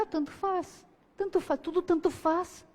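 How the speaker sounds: jovem entediado, tudo tanto faz, voz alta e fraca; dá de ombros com a voz; indiferente. Retold or imitated. Criança indiferente imitada. (criança indiferente, desdém leve e baixo)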